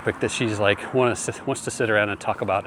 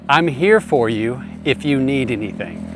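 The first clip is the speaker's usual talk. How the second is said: gentle reassuring tone. Retold or imitated. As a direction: say it gently, no pressure at all. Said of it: "do you hear that tone of voice".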